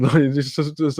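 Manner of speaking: usual speaking voice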